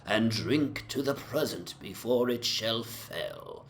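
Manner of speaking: rollicking verse, lightly slurred and merry; tipsy drinking song recital. Acted. Young man declaiming an eighteenth-century drinking song at breakfast, rollicking and lightly tipsy. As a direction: raise your tankard and recite it with a touch of drunken swagger. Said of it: "declaiming in palpably licorice accents".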